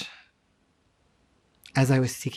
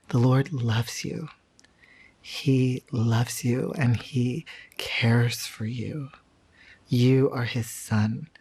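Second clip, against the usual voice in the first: tender assurance; slower than usual. Retold or imitated. Man praying over him.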